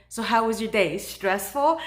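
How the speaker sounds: retold joke, tickled by it; amused joking. Patient teases the stress lab worker, amused. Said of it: "So I start laughing".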